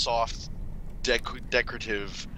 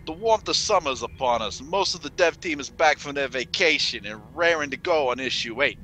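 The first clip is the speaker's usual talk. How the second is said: Count voice; 3 semitones higher than usual. Pretend. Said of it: "Why do you sound like Count?".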